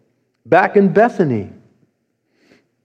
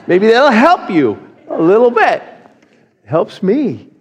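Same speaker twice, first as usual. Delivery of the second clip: laughing; 5 semitones higher than usual. Real, not acted. Laughing after the prayer.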